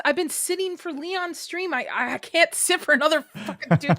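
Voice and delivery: too much caffeine. Real, not acted. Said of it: "I'm a jittery individual".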